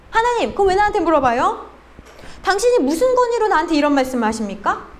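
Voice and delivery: mock-indignant, sarcastic questioning; acted sarcasm. Cain talking back to God, acted sarcastic defiance. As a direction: imitate a sneering challenge to authority. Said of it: "비꼬면서 이렇게 얘기하지 않았을까요?".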